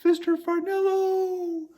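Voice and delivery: calling out. Acted. Mother calling out for son.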